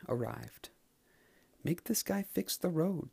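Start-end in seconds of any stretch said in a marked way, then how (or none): 1.6-3.1 stern lawyer. Acted. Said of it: "the blue sports car said".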